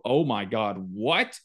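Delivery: scoffing disbelief, pitch jumping high; mock outrage.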